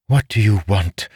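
no-nonsense noblewoman; straightforward. A narrator's reading. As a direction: ask it straight out, businesslike. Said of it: "she asked in a straightforward voice".

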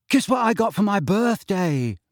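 put-on high, excited boyish question; bursting to show off a present; eager. A narrator's reading. Neville asks friends about his birthday present, eager.

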